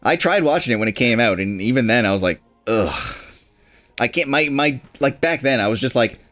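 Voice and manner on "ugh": low "ugh" of disgust; disgusted groan. Retold or imitated. Recalling a bad show, disgusted groan.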